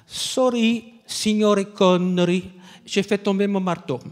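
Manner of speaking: a stagehand sheepishly apologizing in Italian-tinged French; Italian accent. Retold or imitated. Assistant italien s'excusant auprès de Connery. (accent italien, excuse gênée, plus aiguë)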